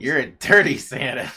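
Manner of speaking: put-on child's voice accusing "dirty Santa"; kid's accent. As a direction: imitate a small girl accusing him. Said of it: "with the accent".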